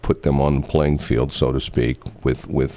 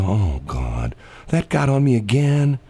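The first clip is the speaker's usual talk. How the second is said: mock resigned; 3 semitones higher, slower than usual.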